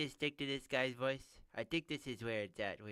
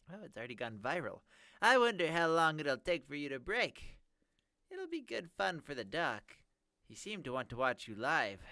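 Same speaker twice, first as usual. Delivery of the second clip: high nerdy villain voice; 5 semitones higher, 6 dB louder than usual. Acted. Villain voice resumes.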